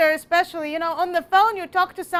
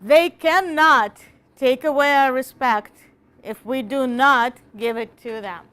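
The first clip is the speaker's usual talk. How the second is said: forceful speech reading; 5 dB louder than usual. Shown as a demonstration. Teacher declaiming the speech loudly to the class. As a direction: boom it out like the speaker at a rally. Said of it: "magic extra credit".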